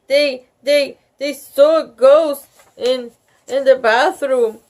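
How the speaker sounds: high, loud breathless rush; child tattling in a frightened rush; gasping. A narrator's reading. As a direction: blurt it out in a panic. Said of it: "she gasped".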